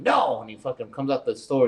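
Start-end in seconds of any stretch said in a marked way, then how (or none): 0.0-0.4 higher-pitched mock yell; retold yell. Clerk yelling at a customer at the door, retold yell. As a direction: imitate someone yelling, without full volume. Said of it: "he's, like, yelling at him".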